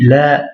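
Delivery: "la" with a long held a; prolonged vowel. Shown as a demonstration. Teacher reading the Arabic "no", "la" prolonged. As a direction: stretch out the vowel of "la". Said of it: "c'est la prolongation du a".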